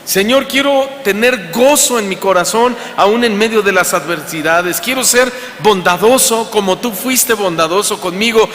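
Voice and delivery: a sermon's closing prayer, earnest and lifted; heartfelt prayer. Acted. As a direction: pray it aloud for the congregation.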